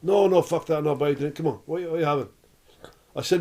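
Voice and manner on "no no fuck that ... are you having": insistent Scottish drinker, lightly voiced; Scottish accent. Old Scot refusing to let visitors pay, insistent Scottish accent. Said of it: "this old Scottish guy at the bar".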